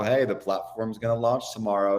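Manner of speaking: imitating a casual colleague's offhand announcement; understated, mock-casual delivery; nonchalant. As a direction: toss it off like no big deal. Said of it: "Dave is so nonchalant".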